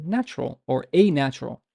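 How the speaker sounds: "natural, or a natural" with short n; undoubled n in "a natural"; no hold on the n of "natural"; single N. Shown as a demonstration. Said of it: "to contrast it".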